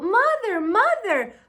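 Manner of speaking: calling to the boat. Acted. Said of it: "He called to the boat".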